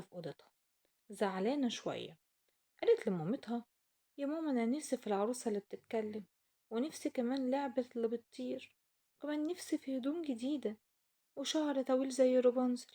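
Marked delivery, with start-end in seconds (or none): 4.2-12.9 put-on whiny little girl. Child Aysel begging her mother.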